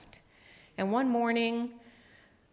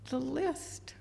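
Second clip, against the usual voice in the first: sheepish laughing confession; 8 semitones higher, 3 dB louder, slower than usual. Retold or imitated.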